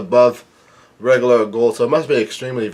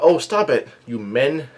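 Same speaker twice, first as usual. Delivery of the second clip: imitated feminine voice; 2 semitones higher than usual. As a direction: lightly put on a giant's effeminate scolding. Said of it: "in a f-, a feminine way".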